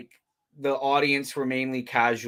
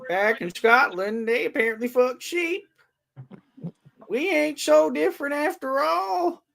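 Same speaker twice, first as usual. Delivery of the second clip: mock Scottish accent; 11 semitones higher than usual. Continuing the put-on farmer bit.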